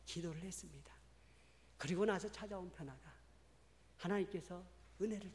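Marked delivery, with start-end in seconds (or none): 0.1-0.9 whispered, almost no voice. Real, not acted. Preacher ending the story of prayer, whispering. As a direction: breathe the words out softly.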